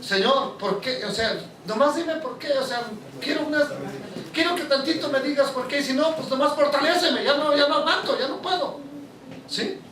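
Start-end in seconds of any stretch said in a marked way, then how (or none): 0.1-8.8 pleading, near tears, to the Lord; a weary man begging God for an answer; tearful prayer. Retold or imitated. Preacher retells praying on the floor, close to tears. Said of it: "Ponerme a llorar y decirle".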